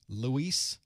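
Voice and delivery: LUIS offered as "loo-EES", with a question; trying a pronunciation. Shown as a demonstration. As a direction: say LUIS with a long "ees" ending. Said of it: "It's one of those, right?".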